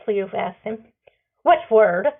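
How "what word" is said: sing-song. A narrator's reading. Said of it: "he says in a sing-song".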